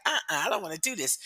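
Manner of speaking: lazy inner voice. Retold or imitated. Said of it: "the unhealthy version of me was like".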